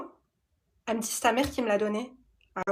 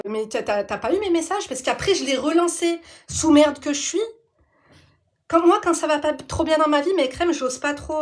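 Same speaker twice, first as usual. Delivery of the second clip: indignant rant; 3 semitones higher, 5 dB louder than usual. Real, not acted.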